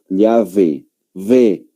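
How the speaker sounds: "llave" with a v sound, then the "ve" alone; Spanish pronunciation. Shown as a demonstration. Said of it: "va a pronunciar un español".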